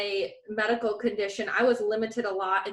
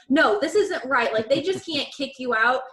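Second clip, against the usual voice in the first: louder, insistent retold scolding; angry; 3 semitones higher, 5 dB louder than usual. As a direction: push the demands, fired up. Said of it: "I was angry".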